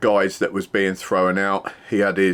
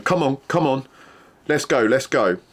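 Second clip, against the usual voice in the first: imitating a drunk Irishman, higher, taunting him forward; drunk goading challenge; 5 semitones higher than usual. Drunk man squaring up to the doorman, mock goading taunt. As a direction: egg him on like a drunk looking for a fight. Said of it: "and he's going".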